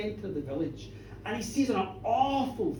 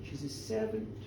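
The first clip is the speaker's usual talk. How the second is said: slow, low, hushed and ominous; grave accusation; 6 semitones lower, 11 dB quieter, slower than usual. A narrator's reading. Village woman telling minister of Satan's coin, hushed and ominous. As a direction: deliver the dark charge slowly and softly.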